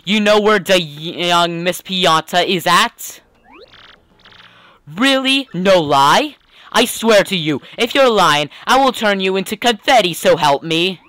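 startled mob henchman. Acted. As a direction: demand answers as a disbelieving gangster. Henchman astonished by the news.

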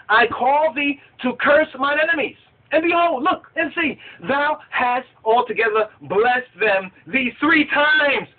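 high, declaimed reproach; mock-dramatic scolding in old Bible language; angered. Balak rebukes Balaam for blessing his enemies, angered. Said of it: "Balak's anger was kindled against Balaam".

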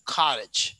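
American "cottage", T flapped like a quick D; American pronunciation. Shown as a demonstration. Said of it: "So we pronounce like".

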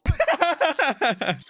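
very high, drawn-out shriek; excited outburst. Real, not acted. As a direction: shriek in amazement at the hit. Excited reaction to the fight.

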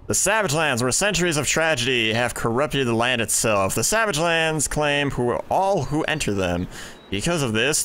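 solemn storyteller reading the intro; game lore read aloud with gravity; dramatic narration read. Acted.

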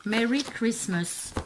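slow English with a French accent. Real, not acted. Vlogger reading a stamp to viewers, French-accented English. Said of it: "mon superbe accent".

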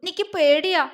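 put-on small whimpering girl; lip-quivering whimper. A narrator's reading. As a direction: confess it on the verge of tears. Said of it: "അവള് ചുണ്ടു വിതുമ്പിക്കൊണ്ട് പറഞ്ഞു".

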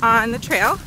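winded from the climb; puffing between words; out of breath. Real, not acted. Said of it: "Sorry, I'm out of breath".

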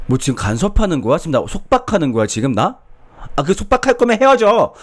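hammed-up offended girlfriend; mock indignant girlfriend. Girlfriend snaps, threatens breakup. (점점 높고 크게 과장되게 화내는 여자친구)

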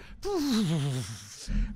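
long falling blown-out breath; puffing out like a kettle losing steam; imitated deflating puff. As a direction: blow the pressure out slowly. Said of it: "and just went".

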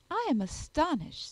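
high-pitched society lady; gushing Miss Bingley. Acted. Lady flattering Darcy about his family library, gushing. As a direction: pitch it up with affected wonder.

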